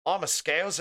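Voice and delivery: put-on amateur Liverpool Scouse accent; attempted Scouse accent. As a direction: have a shaky go at a Scouse accent. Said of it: "I can't do the Scouse accent yet".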